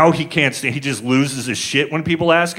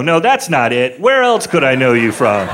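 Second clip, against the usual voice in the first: loud oblivious question through laughter; clueless clerk; 4 dB louder than usual. Pretend. Clueless clerk asking the grieving father, loudly oblivious. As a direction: plough on cluelessly.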